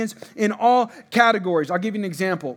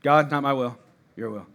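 repeated prayer; 6 semitones lower than usual. Shown as a demonstration.

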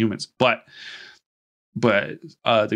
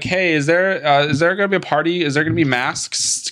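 chirpy mock party voice; 6 semitones higher than usual. Heads voiced in retelling.

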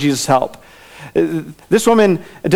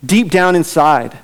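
deep leaned on, slow and falling; deep drawn out with a falling tune; stress on deep. Shown as a demonstration. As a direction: press deep down inside slowly. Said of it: "you feeling something in your guts".

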